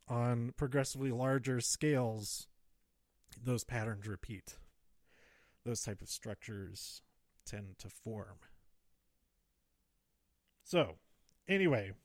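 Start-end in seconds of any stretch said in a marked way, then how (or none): 0.1-8.4 short of breath, trailing off; running out of air mid-sentence. Real, not acted. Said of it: "I'm getting out of breath".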